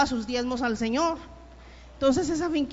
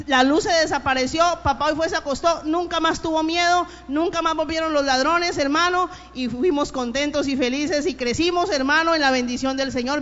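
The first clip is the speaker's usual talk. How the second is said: louder fervent preaching, rising to an appeal; preacher calling the listeners to faith, raised voice; 3 dB louder than usual. Acted. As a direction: urge the listeners to believe. Preaching to the congregation.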